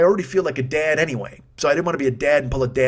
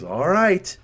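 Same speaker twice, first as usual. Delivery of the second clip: higher-pitched, sceptical mimicked agreement; humouring doubt; 4 semitones higher than usual. Waiter humouring diners he thinks are crazy, doubtful agreement. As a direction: agree as if they were crazy. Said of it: "kinda like we were crazy".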